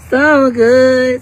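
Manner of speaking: gushing the words So good loud and high; excited. Real, not acted. Hyping her class to viewers, loud gushing.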